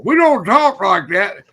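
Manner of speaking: high, slow retold reprimand; imitated scolding father. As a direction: mimic a dad correcting his boy, word by word. Retelling a father scolding his son.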